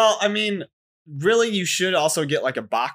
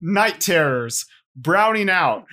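ad disclaimer read aloud. Pretend. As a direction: recite the small print. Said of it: "I have to read this disclaimer".

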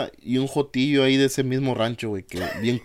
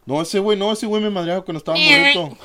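louder, higher, insisting hard; fired-up retort; 7 semitones higher, 7 dB louder than usual. Real, not acted. Correcting the friends, louder and higher with indignation. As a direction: cut them off, indignant and loud. Heated retort about childhood bully.

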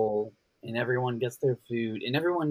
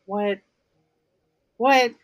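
baffled What, jumping much higher; disbelieving what; 9 semitones higher, 6 dB louder than usual. Retold or imitated. Retelling the cod complaint, she shoots up in disbelief. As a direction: squeak out a stunned what.

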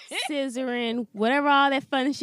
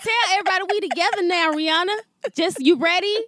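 excited; 5 semitones higher, 4 dB louder, faster than usual. Pretend. Excited plea to a singer.

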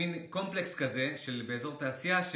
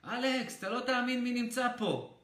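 a lightly voiced wife, higher and excited; wife's voice; 7 semitones higher than usual. Speaker voicing his wife coming out of the shop, higher playful tone. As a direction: tease the surprise like the wife did. Wife tells him who's here.

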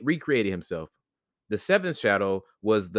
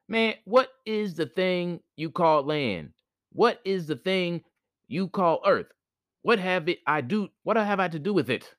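higher, questioning spirit voice; puzzled spirit asking, pitched higher; North spirit voice; 7 semitones higher than usual. Acted. North orbit questions the sun.

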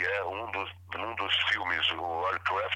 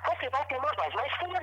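much higher, thin voice; 14 semitones higher than usual. Shown as a demonstration. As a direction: squeeze the voice up thin. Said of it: "Se você quiser uma voz mais fina".

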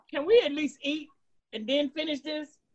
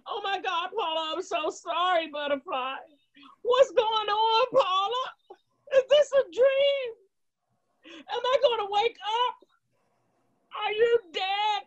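crying; 4 semitones higher than usual. Acted. Sobbing at ghost of Paula.

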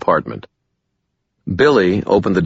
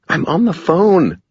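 laughing scold; 12 semitones higher, 4 dB louder, slower than usual. A narrator's reading. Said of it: "more laughter than anger".

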